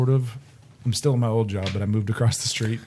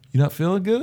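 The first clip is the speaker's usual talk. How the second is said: concerned boss; 8 semitones higher than usual. Retold or imitated. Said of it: "He's like".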